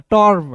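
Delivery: टर्म with a rounded aw before r; falling, professional-style टर्म; professional pronunciation of टर्म. Shown as a demonstration. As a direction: say टर्म as a polished tawrm. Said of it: "थोड़ा सा professional तरीके से पढ़ना है".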